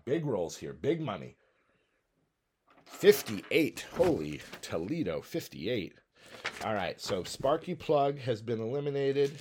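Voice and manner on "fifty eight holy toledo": excited surprise. Real, not acted. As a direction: call out the big roll in disbelief. Big dice roll, holy Toledo.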